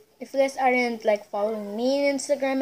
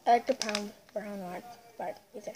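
talking while eating cake; muffled speech around food; mouth full, chewing; 8 dB quieter than usual. Real, not acted. Seen 1: Child bites cake pieces and chews throughout the labelled words.

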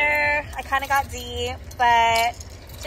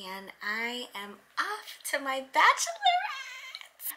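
soft, hoarse early-morning voice; 4 semitones lower, 9 dB quieter than usual. Real, not acted. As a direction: speak with almost no voice left. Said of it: "I have no voice".

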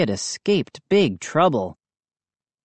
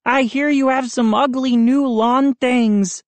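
put-on booming boy; 9 semitones higher than usual. A narrator's reading. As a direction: boom out a taunt, pitched high. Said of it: "he boomed".

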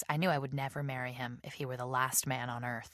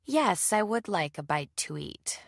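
slow, higher, mildly stiff acceptance; stiffly; 4 semitones higher, 4 dB louder, slower than usual. Acted. Woman accepts his invitation reluctantly, a touch stiffly. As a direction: accept with measured, stiff politeness. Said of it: "I said stiffly".

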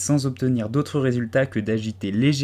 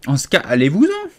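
sulky grumble; 4 semitones higher, 7 dB louder than usual. A narrator's reading. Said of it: "grommela le pigeon d'un ton maussade".

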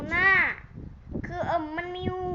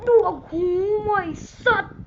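loud, higher yelp of shock, then a curse; startled shout; 5 semitones higher, 9 dB louder than usual. Real, not acted. A player shouts at a teammate after being hit, startled yell. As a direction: yell the insult the moment the hit lands. Character gets hit in the game.

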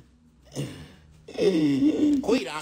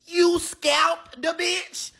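shocked disbelief; 6 semitones higher, 4 dB louder, much slower than usual. Acted. Shocked at the scalping.

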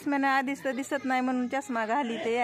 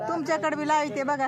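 raised voice; 5 semitones higher, 3 dB louder than usual. Real, not acted. Turning camera to villager.

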